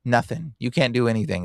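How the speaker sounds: low, dismissive taunt; mock taunt. Elite talking down to the public, mock taunt. Voices the mocking powerful elite.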